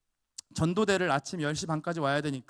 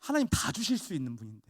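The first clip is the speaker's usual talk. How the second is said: ordinary delivery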